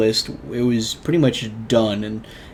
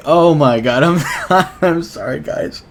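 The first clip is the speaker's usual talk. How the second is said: tearful laugh, a bit louder; laughing through tears; 4 semitones higher, 6 dB louder than usual. Real, not acted. Vlogger catching herself retelling the old lady story, tearful laugh. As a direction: laugh it off while welling up. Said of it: "Every time I tell this story ... I still get all red-eyed and cry".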